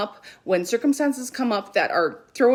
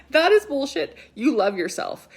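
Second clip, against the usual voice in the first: forceful mom retort; 5 semitones higher than usual. Retold or imitated. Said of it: "And I'm like".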